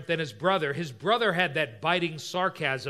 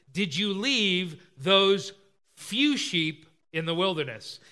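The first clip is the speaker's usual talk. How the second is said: slow, pointed sarcastic dig; biting sarcasm; slower than usual. Acted. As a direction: draw out the belittling question. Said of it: "You see this biting sarcasm there?".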